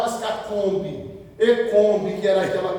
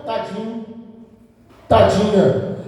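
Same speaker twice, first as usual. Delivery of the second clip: mock pity. Preacher mimicking the congregation's jargon, mock pitying. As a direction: imitate the pitying catchphrase. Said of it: "desse jargão".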